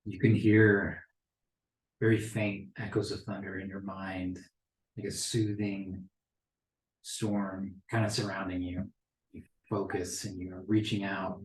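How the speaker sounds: soft, measured narration; game master's scene setting. Acted. Game master describing faint thunder in the mind, soft narration. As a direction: quietly draw the player into the vision.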